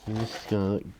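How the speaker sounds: talking with a paintbrush between teeth; words round a brush held in mouth. Real, not acted. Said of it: "Talking with a brush in my mouth right now".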